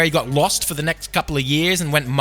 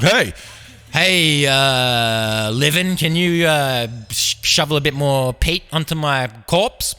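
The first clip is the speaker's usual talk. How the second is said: lightly voiced zombie; halting zombie asking a favour; mock zombie; slower than usual. Zombie calling to a living man at gravesite, lightly acted. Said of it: "zombie came out of the ground".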